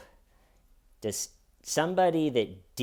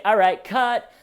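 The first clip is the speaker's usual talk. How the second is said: mock film director; 3 semitones lower than usual. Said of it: "I would say".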